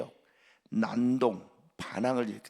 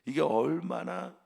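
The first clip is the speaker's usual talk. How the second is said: shaming rebuke; 4 semitones higher than usual. Acted. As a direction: scold him for the shame. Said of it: "말합니다".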